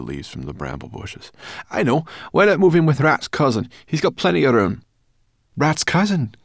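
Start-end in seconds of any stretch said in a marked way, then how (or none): 1.7-4.8 high, loud character voice, brightly suggesting; Sorrel, brash companion. A narrator's reading. Sorrel offering the boy a place to stay, high loud role voice. 5.6-6.3 high, loud, startled question; surprised cry. A narrator's reading. The dragon reminded of Rat's cousin, surprised cry. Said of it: "cried Firedrake".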